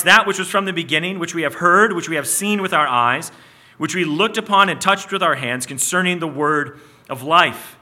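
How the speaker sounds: solemn Bible reading; scripture reading. Acted. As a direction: read the verse out to the church.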